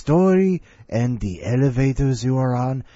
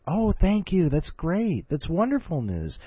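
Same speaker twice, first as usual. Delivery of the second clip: fake politeness; 5 semitones higher than usual. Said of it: "took the phone off mute and said".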